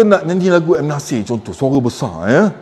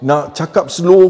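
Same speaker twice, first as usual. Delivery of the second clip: slow talk; 2 semitones higher than usual. Shown as a demonstration. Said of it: "kita cakap slow".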